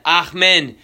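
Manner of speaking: "ahmen" with an open AH first; variant pronunciation. Shown as a demonstration. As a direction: start "ahmen" on "ah", not "ay". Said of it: "there's gonna be slight variations".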